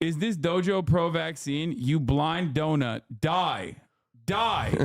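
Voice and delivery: mock troll voice. Reading troll chat in voice.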